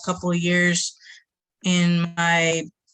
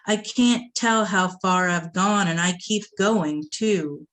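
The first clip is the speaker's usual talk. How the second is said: measured, deliberate poem delivery; spoken-word recital; poetry reading. Acted. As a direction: read it like a performed poem, weighing each line. Reads pantoum aloud.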